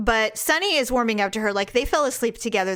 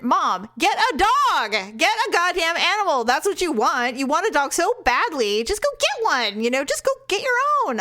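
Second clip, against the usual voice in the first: exasperated advice; 6 semitones higher than usual. Retold or imitated. Daughter telling her nagging mother to get her own dog, exasperated. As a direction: tell her off, half laughing, half fed up.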